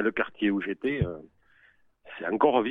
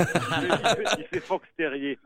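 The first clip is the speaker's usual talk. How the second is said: chuckling while talking; laughing; 6 semitones higher, slower than usual. Real, not acted. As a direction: laugh through it. Joking about host's face.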